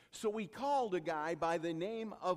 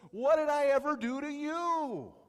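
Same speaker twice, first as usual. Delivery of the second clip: talking donkey; 10 semitones higher, 11 dB louder than usual. Retold or imitated. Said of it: "his donkey looks at him and says".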